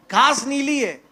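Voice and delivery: a foolish donkey insisting "घास नीली है"; donkey's claim. Acted. गधा राजा से ज़िद करते हुए, ऊँची आवाज़ में "घास नीली है".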